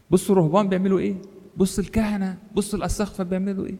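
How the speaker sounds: high, rapid tattling; mock scandalised gossip. Preacher mimics people pointing at monks, priests and bishops, mock scandalised. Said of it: "وتمشي تهلل بيها".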